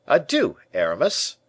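loud, high-pitched farewell; aloud. A narrator's reading. D'Artagnan takes leave of Aramis, aloud. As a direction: call the goodbye out loud. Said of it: "he added aloud".

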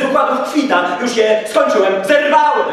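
loud, high and fired up; eager shout. Acted. Judge to the monk, shouting with great zeal. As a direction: burst out with zeal, voice climbing. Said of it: "krzyknął sędzia z niezwykłym zapałem".

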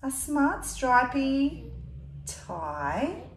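put-on lively read-aloud to a child; storybook reading voice; story narration. A narrator's reading. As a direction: tell it like a picture book. Reading picture book aloud.

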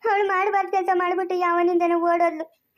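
accusing him through tears; tearful wife reproaching husband; tearful accusation. Acted. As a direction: voice catching on a sob as she blames.

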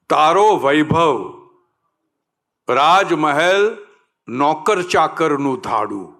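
measured verse with drawn-out words; poem recital. Acted. Actor recalling a poet's lines for the audience, poem recital. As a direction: recite it to the hall, letting each phrase land.

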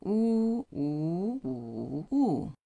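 Wu in all four tones in turn. Shown as a demonstration. Teacher runs through all four tones. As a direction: run Wu through flat, rising, dipping, falling. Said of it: "Four of them".

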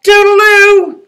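calling goodbye. Acted. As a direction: call it cheerily across to the pigs. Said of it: "he called to the three pigs".

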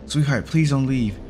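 acted upset mother, pitch climbing; sad pleading. A narrator's reading. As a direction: beg them not to leave, voice lifted. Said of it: "she said sadly".

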